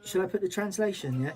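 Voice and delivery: high, excited Scouse impression of a mate; imitating a Scouse friend on the phone; Scouse accent. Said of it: "I'm fluent Scouse".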